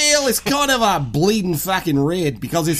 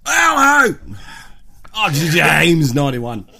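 voicing the dickhead; 3 dB louder than usual. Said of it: "it's winking at me".

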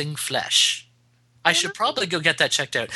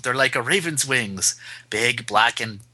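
ominous horror reading; 2 semitones lower than usual. Acted. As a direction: draw it out ominously.

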